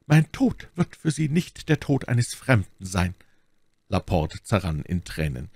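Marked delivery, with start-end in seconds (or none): 0.1-3.1 slow, high, fervent deathbed voice; dying duke, moved. A narrator's reading. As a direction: savour the consolation slowly, pitched high. (sterbender Herzog, ergriffen)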